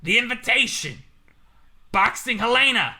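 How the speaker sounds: loud, drawn-out announcing of each title; put-on movie villain reading out a list; Jigsaw voice. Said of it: "I can't imagine being Jigsaw".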